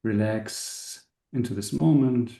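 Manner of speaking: unhurried meditation guide with long pauses; calm, spacious guiding voice; guided meditation. Acted. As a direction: ease the listeners into relaxing, leaving space between phrases. Leads a meditation.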